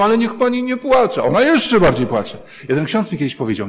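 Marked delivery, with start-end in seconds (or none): 0.0-1.2 higher, louder, pleading plea to stop; insistent pleading. Retold or imitated. Priest urging a sobbing woman to stop, louder and higher. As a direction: beg her to stop crying. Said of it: "Ja mówiłem".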